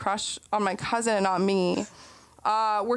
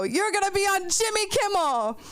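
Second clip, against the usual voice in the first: mock excited; 10 semitones higher than usual. Quoting Mo excitedly.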